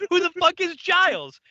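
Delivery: loud, high-pitched bafflement; incredulous outburst. Acted. Other watcher answering angry Bill, loudly incredulous. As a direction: throw the question back, outraged. Acted quarrel, incredulous retort.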